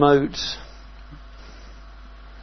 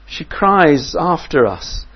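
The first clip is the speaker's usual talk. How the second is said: higher, louder, pleading to be rid of her; impatient disciples; 6 semitones higher, 7 dB louder, slower than usual. Retold or imitated. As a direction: disciples urging Jesus to send her off. Disciples begging Jesus.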